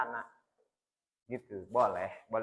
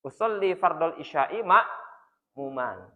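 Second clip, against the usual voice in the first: recited intention; 3 semitones lower, slower than usual. Shown as a demonstration. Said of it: "Maka langsung hatinya niat".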